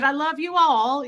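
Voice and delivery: a hint of British little-boy accent; British kid accent. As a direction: lightly mimic a sweet British child. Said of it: "he said".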